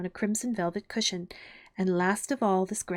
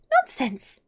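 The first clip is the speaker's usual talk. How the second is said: raised, higher cut-in; loud, decided; 5 semitones higher, 5 dB louder than usual. A narrator's reading. Alice cutting off the Queen, very loud and decided. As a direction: interrupt loudly and firmly. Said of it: "very loudly and decidedly".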